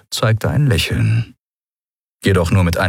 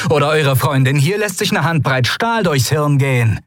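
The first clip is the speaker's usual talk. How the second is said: higher, lightly voiced captor threat; 8 semitones higher than usual. A narrator's reading. Captor threatening the white coats, cocky threat.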